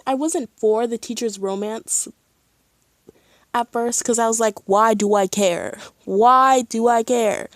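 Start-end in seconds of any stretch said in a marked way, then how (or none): 4.7-7.5 loud, higher mock protest; mock indignation. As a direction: play up exasperated indifference, stretching the repeat. Mimics own earlier objection.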